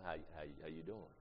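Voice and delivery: a hint of a sly, low, soft greeting; lightly voiced smooth operator saying hello; subtle greeting. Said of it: "You got a subtle brother".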